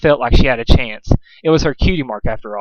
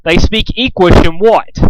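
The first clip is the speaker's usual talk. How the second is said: higher, louder, disbelieving yell; angry interrogation; 6 semitones higher, 5 dB louder than usual. A narrator's reading. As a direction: bark the questions at him. Pinkamena interrogating furiously.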